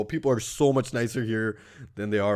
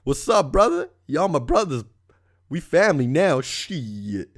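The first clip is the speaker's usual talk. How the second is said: put-on drunk bro voice; 5 semitones higher, slower than usual. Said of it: "he'd be like".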